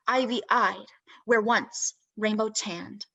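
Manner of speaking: measured poem recital with long pauses between phrases; deliberate spoken-word poem, words carefully set apart; poetry reading. Acted. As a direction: read it as verse, letting each line stand alone. Reads own poem aloud.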